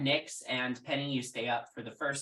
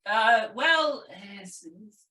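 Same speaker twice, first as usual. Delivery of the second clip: lightly voiced character, higher and hesitant; hedging, higher-pitched reply; Milos; 6 semitones higher, 6 dB louder than usual. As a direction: stammer out a rough estimate in a slightly raised voice. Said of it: "Milos says".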